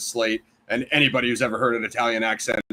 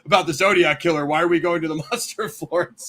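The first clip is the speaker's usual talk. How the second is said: laughing disbelief; 5 semitones higher than usual. Retold or imitated. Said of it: "I was like".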